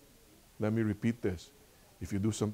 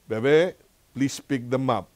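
put-on higher, lilting call to a toddler; coaxing request; 3 semitones higher, 6 dB louder, slower than usual. Grandpa asks toddler granddaughter to tidy toys, coaxing. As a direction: coax a little one, voice lifting on the name.

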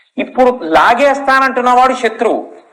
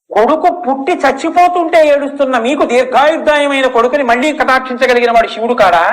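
son pleading; 3 semitones higher than usual. Acted. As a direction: reassure father with rising conviction. Boy comforts his weeping father.

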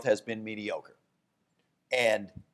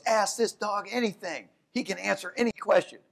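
higher-voiced eager salesman pitch; hyping up his talking dog; man with talking dog; 7 semitones higher than usual. Man boasting to the newspaper about his dog, pitched up. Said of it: "And he goes".

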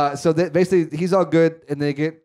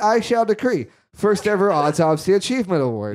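higher-pitched playful proclamation; mock decree; 5 semitones higher than usual. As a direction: announce it as a mock-official decree. Mock official decree of an award.

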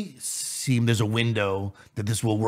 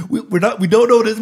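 laughing; 11 semitones higher, 7 dB louder, faster than usual. Real, not acted. Laughing through his own point.

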